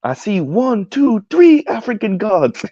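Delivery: high, drawn-out, hammed-up West African accent; attempted West African accent. Quoting a favourite American Gods clip, attempted West African accent. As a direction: imitate a West African god in a rough accent. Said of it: "I can't do the West African accent".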